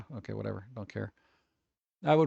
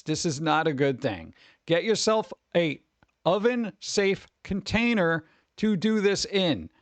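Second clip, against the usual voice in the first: deliberate, lightly mocking announcer delivery; mock-solemn public safety warning; mock public service announcement; 3 semitones higher than usual. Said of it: "here's a public service announcement".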